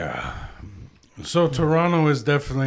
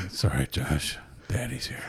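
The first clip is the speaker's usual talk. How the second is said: sweet nothings; 8 semitones lower, 7 dB quieter than usual. Pretend. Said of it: "whisper sweet nothings to you".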